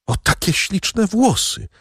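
lightly voiced lament over lost hair; regretful cry. A narrator's reading. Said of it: "zawołała z żalem Luiza". (żałosny okrzyk, wyżej i wolno)

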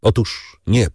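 plain reading voice

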